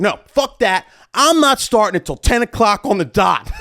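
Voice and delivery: high, laughing spite; petty defiance. Retold or imitated. DJ deciding to start late out of spite, laughing. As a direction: dig in, half laughing.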